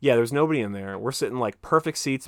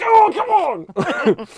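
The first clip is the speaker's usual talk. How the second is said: drawn-out, much higher, louder protest; exasperated groan; 10 dB louder, much slower than usual. Retold or imitated. Friend groaning at the running chapstick joke, exasperated. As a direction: stretch it out in mock despair. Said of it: "And he'd be like".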